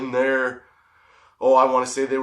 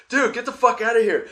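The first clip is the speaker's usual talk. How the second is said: laughing protest; 11 semitones higher than usual. Retold or imitated. Pushing away a kissing buddy.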